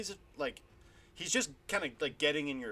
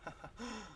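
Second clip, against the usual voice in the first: short villain chuckle; 8 semitones higher, 10 dB quieter than usual. Acted. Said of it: "He kinda laughs".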